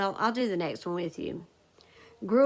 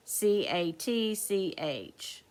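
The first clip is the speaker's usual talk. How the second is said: slow letter-by-letter spelling; slow spelled-out letters; spelling aloud; slower than usual. Shown as a demonstration. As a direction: spell each letter out slowly. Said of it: "I hope you marked the first one".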